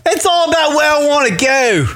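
doing a quick Conor McGregor bit; a hint of Conor's Irish lilt; Conor impression. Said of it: "is that Connor".

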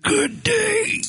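very high squeaky sign-off; squeaky good day. Retold or imitated. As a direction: squeak it out in falsetto. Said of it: "Paul, are you okay?".

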